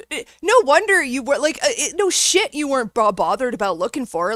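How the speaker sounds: exasperated and indignant; angry sarcasm. Real, not acted. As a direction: stumble over your words in outrage. Angry rant at the caller.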